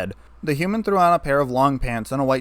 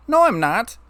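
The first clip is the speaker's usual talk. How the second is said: high, louder stern denial; firm and sharp, no room for doubt; 10 semitones higher, 4 dB louder than usual. A narrator's reading. Twilight to Isaac, insisting, stern and raised. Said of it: "Twilight said in a stern tone".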